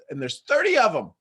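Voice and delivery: ordinary talk, nothing marked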